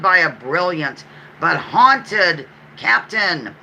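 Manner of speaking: reading out the trivia clue like a quizmaster; quiz clue read. Acted. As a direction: present the clue with a measured build. Reads trivia clue aloud.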